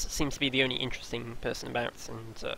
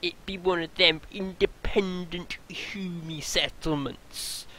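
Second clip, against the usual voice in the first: put-on pirate accent; 3 semitones higher than usual. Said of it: "I don't know where this accent's going".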